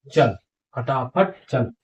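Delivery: चल, फटाफट चल read out slowly word by word; slow reading demo. Shown as a demonstration. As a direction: sound it out slowly for learners. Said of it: "और वो बोलेंगे". (धीरे-धीरे पढ़कर दिखाना)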